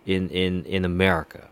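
lightly voiced boastful diplomat; a hint of a smug official bragging; imitating the diplomat's boast, barely changed; mocking the diplomat. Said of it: "He's like".

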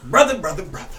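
loud echoing brother call; preacher call and response. Acted. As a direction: chime in like church. Calls back like a congregation.

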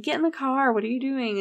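lightly acted exasperated order; mock urgent plea. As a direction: urge him along, in a retelling. Family urging him into car.

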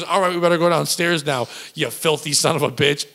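lightly imitated Long Island accent; New Jersey accent. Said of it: "she talked in this New Jersey, Long Island accent".

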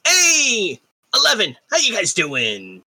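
twinkling breathy fairy whisper. Acted. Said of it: "you hear a little voice from behind you".

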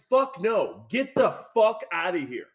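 indignant outburst, not full volume; retold angry scream. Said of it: "just screaming at her".

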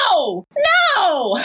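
rising to a high wail; second no cries out high; retold anguished protest. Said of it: "and I was like".

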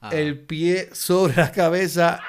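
slow, laughing through it; can't stop laughing. Real, not acted. Laughing at Siri's joke.

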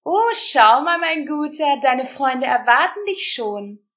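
high, loud groaning creature voice. A narrator's reading. Umbro leader mocking the prisoners, high groaning creature voice. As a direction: croak it out like a wheezing creature. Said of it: "eine ihr mittlerweile bekannte Ächzstimme".

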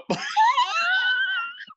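shrieking burst of laughter; a loud high cackle; howling laugh. Real, not acted. Reaction to the Sam Adams stack.

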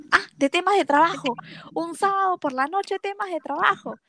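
mock her excuse back at her, disbelieving; sarcastic mocking. Jealous boyfriend sneers at her work-talk excuse, sarcastic.

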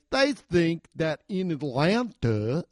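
slow, mock Norwegian accent. Comic quoting the serial killer podcast host, Norwegian accent. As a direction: exaggerate a Norwegian host's accent, drawn out. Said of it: "talk about a fucking accent".

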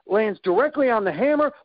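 ordinary talk, nothing marked

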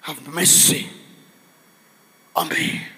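low, soft, spaced-out begging; hushed plea. Acted. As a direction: fall away quietly after the big cry. Plea drops right after scream.

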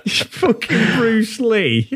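slow, drawn-out deadpan delivery; a lightly voiced, slowed-down mock Simon; Simon's deadpan line. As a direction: let each word land slowly and flatly. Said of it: "He says".

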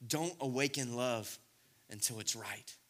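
quiet tender verse; hushed. Acted. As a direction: drop to almost nothing. Quoting the song softly.

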